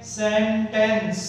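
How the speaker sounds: सेंटेंस in two slow beats, सेन-टेंस; syllable by syllable. Shown as a demonstration. Teacher showing learners a word's syllables, syllable by syllable. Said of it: "उसके syllable को जानने की".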